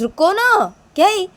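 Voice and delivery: high, loud retort; impatient. Acted. Cuts short the exasperated protest. (बेसब्री से ऊँची आवाज़ में)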